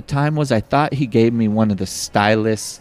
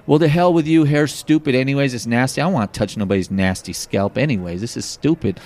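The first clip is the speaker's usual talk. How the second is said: indignant outburst; 3 semitones higher than usual. Retold or imitated. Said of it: "all of a sudden I go into like".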